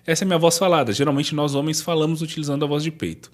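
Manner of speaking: ordinary talk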